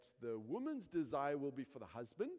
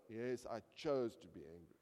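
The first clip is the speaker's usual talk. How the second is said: low, reluctant admission after a scolding; grudging child; 5 semitones lower than usual. Acted. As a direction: give in like a corrected kid, lower. Child's reluctant answer to parent.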